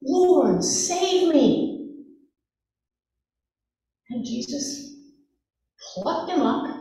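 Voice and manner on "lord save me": a retold cry for help, a bit higher and louder; mild retold shout of fear; mock yell. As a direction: call out for rescue, half-acted. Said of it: "And he yelled".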